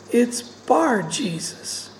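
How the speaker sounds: BAR drawn out slowly and set apart from Jesus; stress on BAR. Shown as a demonstration. Preacher correcting the name for listeners, slow stress on BAR. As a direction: lean slowly on the word Bar.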